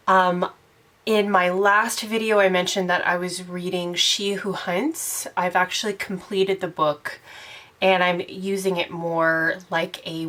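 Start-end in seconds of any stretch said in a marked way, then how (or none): none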